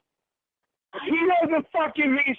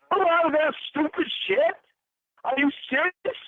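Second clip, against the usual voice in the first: raised, furious accusing; higher, furious rant at a lying partner; angry; 4 semitones higher than usual. Real, not acted. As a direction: hurl the accusations at her, pitch up.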